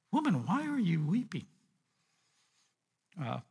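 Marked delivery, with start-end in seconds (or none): 0.1-1.5 kind rebuke. Acted. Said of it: "in a very kind, rebuking way".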